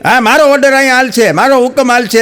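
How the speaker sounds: mock furious husband laying down the law; angry husband yelling. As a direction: bellow orders at his wife. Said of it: "જોર જોરથી ગુસ્સોમાં આમ રાયડું પાડી પાડીને".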